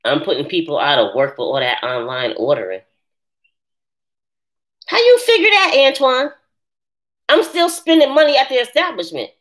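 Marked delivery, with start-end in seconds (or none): 4.9-9.3 high, loud disbelief; incredulous. Real, not acted. Answering a viewer's accusation with loud disbelief. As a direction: challenge him in disbelief.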